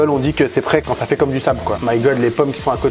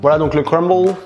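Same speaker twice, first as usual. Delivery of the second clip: put-on French said with an English accent; mock English accent, light and playful; 3 semitones higher than usual. Cook presenting the crumble to viewers, mock English accent. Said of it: "Faut que j'arrête avec cet accent anglais".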